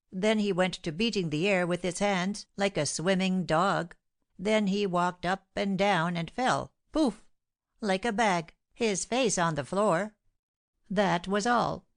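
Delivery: lightly voiced fussy servant, eager to tell; a hint of a gossiping servant; excited servant. Baptiste's tale goes on.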